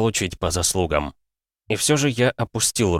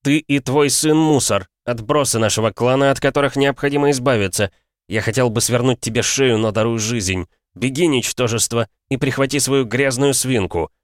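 menacing anger; 5 semitones higher than usual. Acted. Hero threatens merchant by throat.

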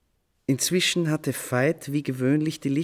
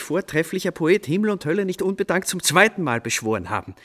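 eager inner thought; 4 semitones higher, faster than usual. Retold or imitated. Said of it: "dachte ich".

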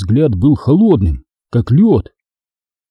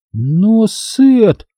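usual speaking voice

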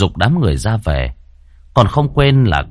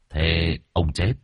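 hushed questioning; 3 semitones lower, 7 dB quieter than usual. A narrator's reading. Shaman questioning ghost.

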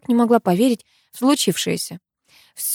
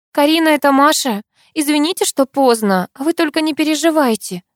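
much higher, faltering and upset; flustered; 8 semitones higher than usual. Acted. Masha calls Karina at night with bad news, flustered and high. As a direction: rush the words out nervously. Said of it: "сбивчиво начала она".

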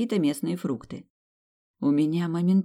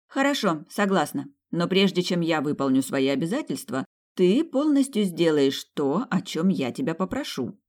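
intriguing. Acted. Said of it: "интригующим голосом сообщила я".

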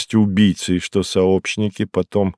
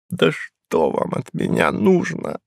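a slow, higher, moaning plea; 6 semitones higher, 3 dB quieter, slower than usual. Acted. Hinkus moaning at the detective who won't let go, slow and higher. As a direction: moan it, worn down. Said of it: "простонал он".

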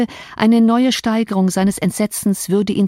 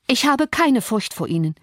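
higher-pitched defiance without real shouting; defiant cry; 5 semitones higher than usual. A narrator's reading. Girl standing up to the threatening man, mild defiant cry. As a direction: call it out boldly, pitch raised. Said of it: "rief Cathy".

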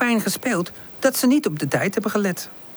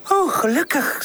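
relieved; 9 semitones higher than usual. Acted. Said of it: "zegt ze opgelucht".

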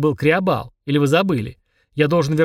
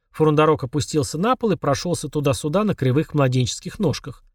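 ordinary delivery, nothing marked

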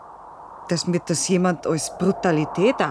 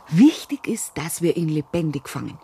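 ambush whisper. Acted.

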